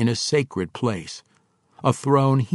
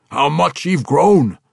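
slow, louder and higher, fondly amazed; affectionate exclamation; 6 semitones higher, 7 dB louder than usual. A narrator's reading. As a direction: draw it out with loud fondness. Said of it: "he added affectionately".

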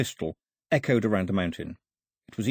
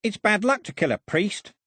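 high-pitched alarm; rattled, voice jumping high; panicky; 10 semitones higher than usual. A narrator's reading. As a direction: blurt it in a sudden panic. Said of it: "looking panicky".

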